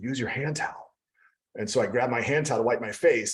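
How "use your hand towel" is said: imitated whisper. Recounting a class, the speaker repeats what the instructor said, retelling her whisper. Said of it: "she whispers to me".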